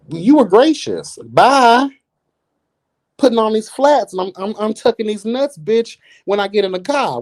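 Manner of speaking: gleefully fired up to leave; giddy about kicking off the flats; hyped rant. Real, not acted. Hyped about going home.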